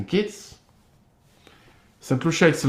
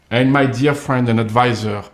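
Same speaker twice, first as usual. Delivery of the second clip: ordinary talk, nothing marked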